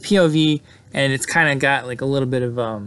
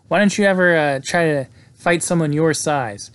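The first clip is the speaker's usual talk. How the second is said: tough confrontation; 4 semitones higher, 4 dB louder than usual. Retold or imitated. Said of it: "gets right in Glazer's face".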